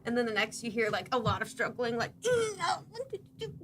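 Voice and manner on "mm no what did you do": startled princess. Acted. Princess struggling with guard.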